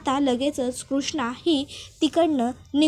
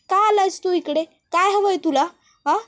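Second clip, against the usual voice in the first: higher, louder acted confrontation; angry demand; 5 semitones higher, 4 dB louder than usual. Pooja confronts the intruder Jaykant, acted anger. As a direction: demand an answer, half in earnest.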